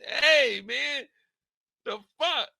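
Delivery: high strained pleading; panicked pleading. Retold or imitated. Tommy pleading with the driver, high and scared.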